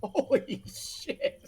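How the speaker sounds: breathless whispered disbelief; awed whisper. Real, not acted. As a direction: whisper it, floored. Stunned by movie score news.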